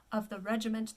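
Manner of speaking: of the regiment said in plain English. Shown as a demonstration. Coach noting the common English title. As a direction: read it the English way. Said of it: "pronounced more in English".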